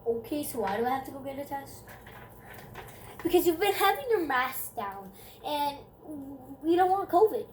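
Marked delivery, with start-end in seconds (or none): 3.2-7.4 louder, higher stern school lady; scolding staff voice. Retold or imitated.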